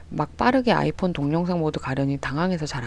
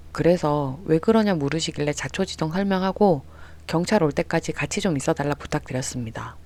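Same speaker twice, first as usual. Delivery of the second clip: plain reading voice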